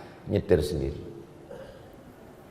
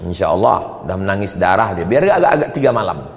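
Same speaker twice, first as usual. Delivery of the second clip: ordinary talk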